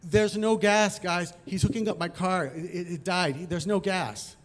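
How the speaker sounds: mild retold yell; yelling back. Stranded motorist answers approaching punks, mildly yelling back. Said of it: "I yell back".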